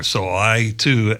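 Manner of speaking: usual speaking voice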